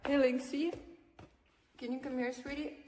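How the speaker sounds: high sweet call to the dog; talking to a dog. Real, not acted. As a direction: coax the dog over gently.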